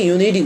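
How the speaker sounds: ইউনিটি pronounced "iu-ni-di"; ইউনিটি with ডি in place of টি. Shown as a demonstration. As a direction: turn the t of ইউনিটি into a d. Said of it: "ডি উচ্চারণ করে".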